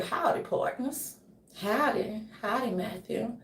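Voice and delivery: soft, hushed Southern drawl howdy; Southern dialect. Acted. Imitating Matthew's greeting, hint of Southern dialect. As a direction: lightly put on a Southern accent, softly. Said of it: "he can pull off a Southern dialect".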